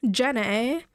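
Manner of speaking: drawn-out film character impression; playful imitation calling the name; Forrest Gump. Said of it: "That's Forrest Gump".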